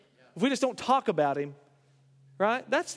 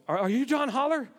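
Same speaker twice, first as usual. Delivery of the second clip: mildly panicked caller, pitched up; 5 semitones higher than usual. Retold or imitated. Stranger phones the pastor for help, panicked. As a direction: imitate an anxious late-night phone caller. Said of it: "a man who was panicked".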